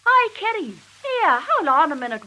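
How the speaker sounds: high loud call; shouting after her. Retold or imitated. Husband shouting after his wife, loud high call. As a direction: call her back from down the road. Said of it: "our Tom shouts after me".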